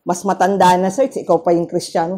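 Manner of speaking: a low, soft rebuke from the Spirit; Holy Spirit rebuking. Retold or imitated. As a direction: gently scold yourself as the Spirit. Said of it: "sabi ... ng Espiritu ng Diyos". (mahina at mababang saway ng Espiritu)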